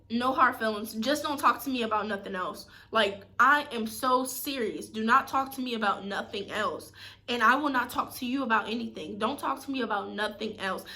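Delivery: stern, deadly serious retelling; quoting her own firm boundary; firm retold warning. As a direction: lay down the law, serious. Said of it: "I just told this person".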